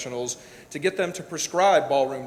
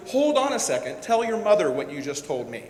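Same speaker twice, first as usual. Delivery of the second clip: imitating a thrilled father who wants mom on the phone; excited dad. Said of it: "he was so excited".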